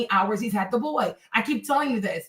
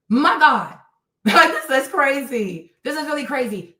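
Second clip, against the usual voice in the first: laughing, slow and disbelieving; laughing disbelief; 2 semitones higher, 3 dB louder, slower than usual. Real, not acted.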